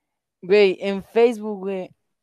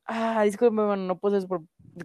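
polite apology. Retold or imitated. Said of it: "no puedes ir y le dices".

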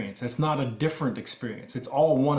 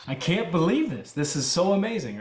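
mild mock squeal of excitement; giddy amazement, retold with lilting pitch peaks; delighted disbelief; 3 semitones higher than usual. Grown man retelling his private delight on the forklift, mildly giddy. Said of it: "squealing to myself out of delight and excitement".

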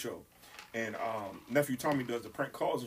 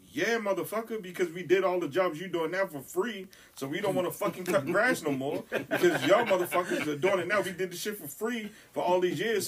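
сердитая отповедь; 4 semitones higher than usual. Retold or imitated. Retold angry outburst at radio.

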